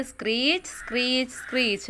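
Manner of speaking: parrot cry. Shown as a demonstration. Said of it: "parrot എന്താ പറയുന്നത്?".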